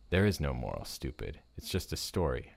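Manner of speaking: snapping. Acted. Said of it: "an older boy snapped back".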